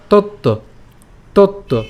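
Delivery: "তত্ত্ব" with a held double t; joined double consonant. Shown as a demonstration. Teacher joins the two letters, careful pronunciation demo. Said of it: "ত এর সাথে পরের তয়ে তো আমরা উচ্চারণ করব".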